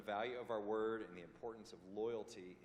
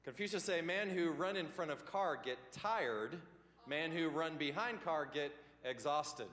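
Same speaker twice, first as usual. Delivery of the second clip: slow, higher, louder mock Chinese accent; hammed-up Chinese-accented proverb; punchy mock Chinese accent; mock Confucius accent; 5 semitones higher, 5 dB louder than usual. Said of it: "I will talk like this".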